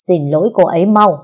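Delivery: loud commanding roar; husband roars at the stepmother to apologise, loud; thundering roar. Acted. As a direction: roar the order at her. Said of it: "Giọng Quyền gầm lên như sấm".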